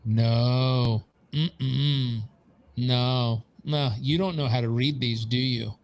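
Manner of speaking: a lightly voiced, condescending accountant; his accountant's voice. Retelling his accountant's dismissive verdict, lightly voiced. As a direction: talk down to him like the unimpressed accountant. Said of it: "I'll use his voice".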